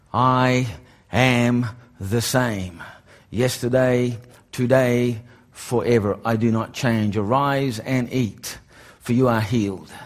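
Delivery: slow, low, solemn divine voice; voice of God. Retold or imitated. God speaking to him at the conference, slow and solemn. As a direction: deliver it slowly and gravely like God speaking. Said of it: "I hear this voice that goes".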